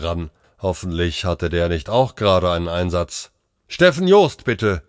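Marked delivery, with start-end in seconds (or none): 3.7-4.8 high, loud call into the microphone; urgent raised-voice summons. A narrator's reading. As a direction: hail a colleague over the radio. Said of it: "rief er ins Mikro".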